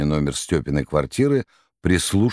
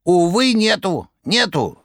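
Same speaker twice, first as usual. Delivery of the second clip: rattling cry; 12 semitones higher, slower than usual. A narrator's reading. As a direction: wail it out theatrically. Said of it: "кричала трубка".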